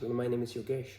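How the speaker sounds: name introduced in an English accent. Shown as a demonstration. Vlogger introducing himself as example, English accent. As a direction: say "Yogesh" the English way. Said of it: "when I say it in English".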